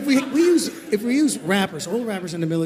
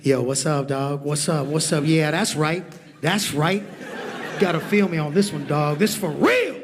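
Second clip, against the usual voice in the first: rapper slang voice; 3 semitones lower than usual. Pretend. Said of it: "in his hip-hop talk".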